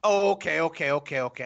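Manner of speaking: ordinary talk, nothing marked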